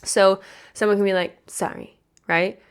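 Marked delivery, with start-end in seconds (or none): 1.5-2.0 breathy, dismissive little sorry; fake apology. Mocking a fake apology to the viewers. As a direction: toss off a hollow apology. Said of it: "Have you guys ever had a fake apology?".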